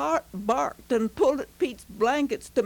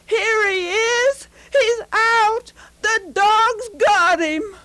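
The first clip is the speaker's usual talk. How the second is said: higher, louder, slow excited shout; voice above commotion; 9 semitones higher, 6 dB louder, slower than usual. A narrator's reading. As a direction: call it out over the crowd. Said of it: "a voice rose above the commotion".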